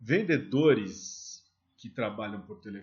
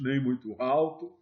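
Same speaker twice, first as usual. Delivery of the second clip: the words "nem muito alto" said louder, showing too loud; spoken louder; 4 dB louder than usual. Shown as a demonstration. Sales teacher showing trainees a too-loud voice, louder. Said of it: "a entonação da sua voz".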